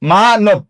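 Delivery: মা-নব as maa-nob, syllables closer together; joined-up pronunciation. Shown as a demonstration. Teacher models the finished word, joined-up pronunciation. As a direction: say মা-নব in one go with a final o sound. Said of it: "মানবটা উচ্চারণে কি হবে?".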